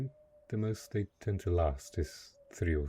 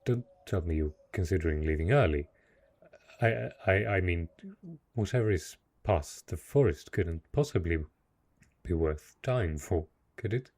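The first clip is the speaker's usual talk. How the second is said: quick, louder, stumbling plea; anxious pleading; 3 dB louder than usual. Acted. Castle host begging the guest not to leave, anxious. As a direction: rush the words, clinging to the guest.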